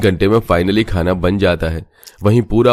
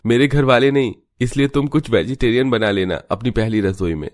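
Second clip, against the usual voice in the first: put-on higher-pitched young husband voice, earnest; son pleading with mother; 4 semitones higher than usual. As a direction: gently persuade his mother to let them move out. Narrator voices husband Ravi.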